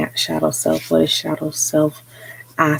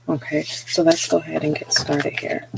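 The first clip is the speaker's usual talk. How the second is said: whisper. Real, not acted. Sudden whispered aside.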